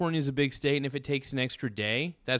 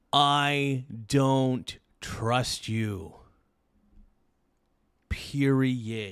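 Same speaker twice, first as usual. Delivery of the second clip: words spoken very slowly. Speaker addresses California after waiting nearly a week, speaking very slowly. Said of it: "I am speaking very slowly right now".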